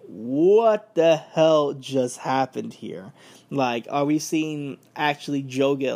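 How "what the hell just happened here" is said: stunned disbelief. Real, not acted. Shocked reaction to knockout ending.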